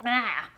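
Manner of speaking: sputtering water mid-sip; spitting out a drink. Real, not acted. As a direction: choke and spit out water. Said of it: "I just spit water everywhere".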